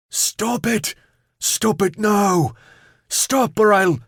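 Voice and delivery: high desperate screams; screaming. Acted. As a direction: scream it, losing control. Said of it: "He screamed".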